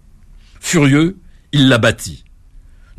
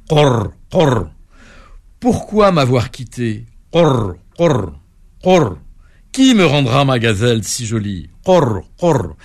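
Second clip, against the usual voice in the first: croaking toad lament; slower than usual. Acted. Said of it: "se lamenter en répétant".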